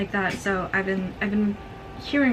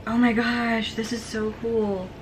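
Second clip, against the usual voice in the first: delighted gush, slowing on the end; thrilled by the pictures; excited; 3 semitones higher, slower than usual. Real, not acted. Unboxing illustrated book.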